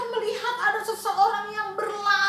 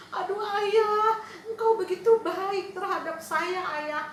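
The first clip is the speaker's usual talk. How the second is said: crying son; 3 semitones higher than usual. Acted. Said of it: "Nangis, nangis".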